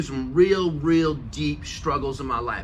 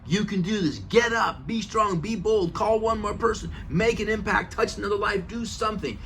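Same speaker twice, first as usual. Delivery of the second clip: higher, pumped-up self-coaching; pep talk to self; 4 semitones higher than usual. Retold or imitated. Pounding the steering wheel, pumping himself up, higher. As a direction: fire yourself up behind the wheel. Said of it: "pounding on my steering wheel".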